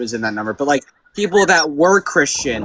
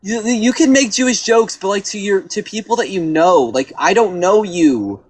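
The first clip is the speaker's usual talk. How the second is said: put-on Jewish accent; 4 semitones higher than usual. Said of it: "you're saying that in a very Jewish voice".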